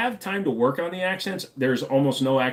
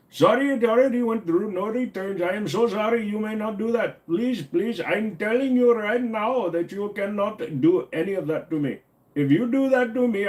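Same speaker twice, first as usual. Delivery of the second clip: pleading, higher scammer voice; mock scammer; 5 semitones higher than usual.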